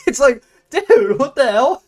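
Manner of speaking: real amused outrage, slowed; laughing disbelief. Real, not acted. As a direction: laugh through it, can't believe it.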